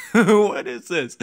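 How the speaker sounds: slow, stretched put-on voice; mock disbelief. Gamer repeats the question, slow mock bafflement. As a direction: draw it out like a baffled cartoon.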